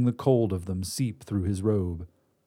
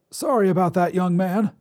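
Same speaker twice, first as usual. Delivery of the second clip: put-on higher reedy old man's voice; reedy old wizard; 8 semitones higher, 4 dB louder than usual. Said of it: "a reedy voice said".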